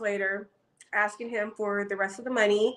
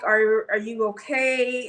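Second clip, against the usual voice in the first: mock nervous; slower than usual. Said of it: "Acting nervous".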